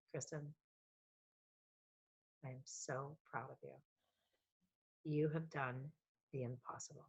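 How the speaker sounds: quietly, taking your time like a thoughtful father; a soft, paused father's blessing; dad's slow tender words. Retold or imitated. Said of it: "He always took long pauses".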